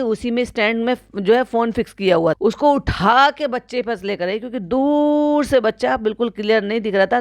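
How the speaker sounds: ordinary talk, nothing marked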